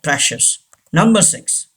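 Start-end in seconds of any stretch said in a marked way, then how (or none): 0.0-0.5 PRECIOUS as PRESH-us; "precious" with CI sounded as sh. Shown as a demonstration. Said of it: "gives the sound sh". (precious में CI से "श")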